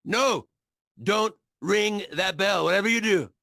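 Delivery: panicked ex-husband begging her not to ring the bell; alarmed warning. Acted. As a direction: stop her before she rings it.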